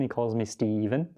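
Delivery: "Steven" with Western Canadian inflection; dad's pronunciation. Retold or imitated. Joking about dad's name for him, Alberta pronunciation. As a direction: say "Steven" as an Albertan dad would. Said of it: "my dad doesn't call me Steven".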